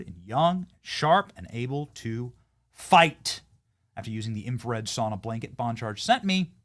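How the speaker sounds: upbeat sponsor read, punchy and selling. Acted. Host reads a sponsor spot to listeners, upbeat ad read. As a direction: sell the sauna blanket like a podcast ad.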